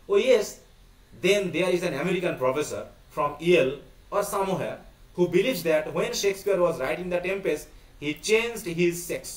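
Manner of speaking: slow, deliberate read-aloud of a play; reading text aloud. Acted. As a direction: read it out word by word, slowly. (ধীরে ধীরে নাটক পাঠ)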